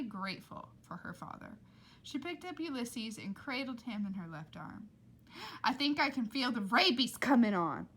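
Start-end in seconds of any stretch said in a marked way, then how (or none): 5.6-7.9 much louder whining complaint; milk the symptoms; dramatic Rita. Acted. Rita moaning to everyone, much louder. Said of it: "said Rita".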